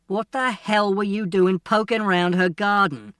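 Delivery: a father catching his son out, voice rising; angry father. Acted. Father confronts son at dinner.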